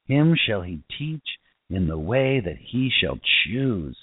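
scripture reading. Acted. Continues reading the psalm.

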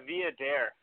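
Via Dare, slowly, with stress landing on Dare; emphasis on Dare. Shown as a demonstration. Winemaker corrects host on his surname, stress on Dare. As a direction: land on Dare in Via Dare, unhurried. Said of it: "The emphasis is on dare".

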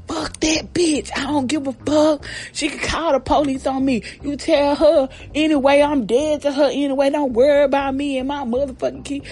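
acted-out indignant outburst; mock angry dismissal. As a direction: imitate a fed-up sister cutting everyone off. Acted sister's angry dismissal of mother.

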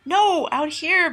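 high, slow yell across the room; mother yelling at Linus to come outside. Acted. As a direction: call him back loudly, drawn out. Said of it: "Melanie yelled".

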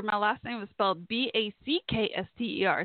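letter by letter: B A C K S T E R; spelling it out. Shown as a demonstration. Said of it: "very unusual last name spelling".

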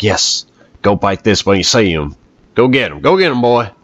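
hammed-up Southern accent urging a dog on; AJ Styles accent. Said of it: "I was trying to do an A J Styles accent".

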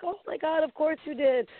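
high, exasperated mom voice; imitating mom. Mom reacting to prize.

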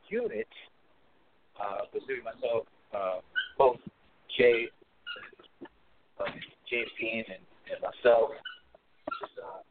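muffled, underwater phone line. Real, not acted. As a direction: sounds like a bad underwater connection. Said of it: "why do you sound like you're underwater".

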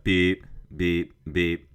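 mock reversing beeper, evenly spaced beeps; spoken backing-up beeps. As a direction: beep like a truck backing up. Mimics reversing sound to back up.

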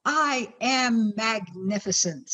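slow, savoring declaration; booming motivational speech. Shown as a demonstration. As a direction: stretch it out proudly. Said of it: "repeat after me".

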